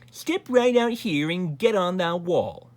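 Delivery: high, loud, slow command; snapping. A narrator's reading. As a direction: order him out with drawn-out impatience. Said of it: "snapped the Grand Duke Wilfred".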